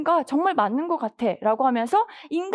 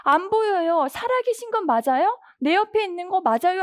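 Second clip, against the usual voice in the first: higher-pitched, urgent appeal to God; anxious pleading; 4 semitones higher than usual. Acted. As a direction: act out someone desperately calling for God. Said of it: "애타게 하나님을 찾고".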